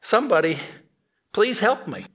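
high, panicky monkey cry; a touch of a screeching monkey. Acted. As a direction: plead like a trapped monkey. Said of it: "he screeched".

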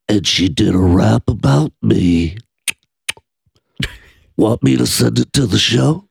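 put-on low drunk rambling; Jeff the Drunk impression. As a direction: sink into the low voice. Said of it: "same with Jeff the Drunk".

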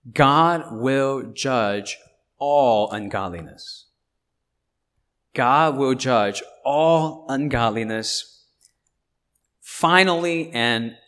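slow, loud, weighted declaration; emphatic proclamation. Real, not acted. Preacher declaring God's judgment to the congregation, emphatic proclamation.

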